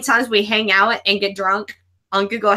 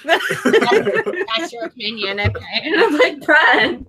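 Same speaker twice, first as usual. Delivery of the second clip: laughing hard; 4 semitones higher than usual. Real, not acted. Guest laughing hard while retelling the host's reaction. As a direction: crack up while telling it. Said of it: "That's why I'm laughing so hard".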